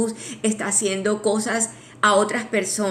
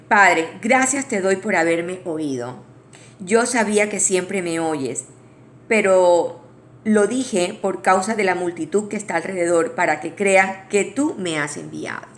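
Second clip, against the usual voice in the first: scripture reading; 3 dB louder than usual. Shown as a demonstration. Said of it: "quiero leerlo porque es muy lindo".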